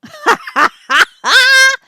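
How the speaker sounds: high, loud burst of cackling laughter; loud laughing. Real, not acted. Host amused by the dusty fool, laughing loudly. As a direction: cackle loudly at your own joke. Laughing at her own joke.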